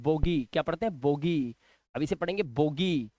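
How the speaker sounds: बोगी said "bo-gee" with a long ee; ee ending. Shown as a demonstration. Teacher modelling बोगी for the class, long ee ending. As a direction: lengthen the final ee of बोगी. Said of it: "पहले ई उच्चारण देखेंगे".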